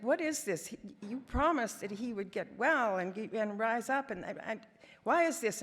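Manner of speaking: half-tearful grumble at God, rising in protest; whining and crying. Retold or imitated. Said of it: "And I'm whining and crying".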